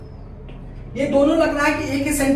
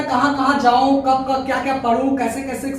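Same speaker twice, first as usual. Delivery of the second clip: fondly. Shown as a demonstration. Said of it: "इस प्यार से जो कहता है".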